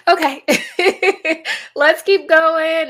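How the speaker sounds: bubbling over, eager for the next one; excited push on. Real, not acted. Eager to show more examples.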